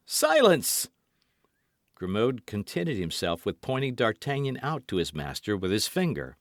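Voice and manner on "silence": stern command. A narrator's reading. Master commanding servant.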